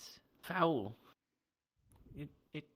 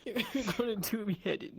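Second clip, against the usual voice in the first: laughing; 5 semitones higher, 3 dB louder than usual. Real, not acted. Laughing fit.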